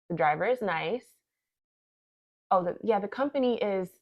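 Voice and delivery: lightly acted chat on the phone; re-enacted phone call. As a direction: act out a one-sided call, playing it okay. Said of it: "So I pretend to have a conversation".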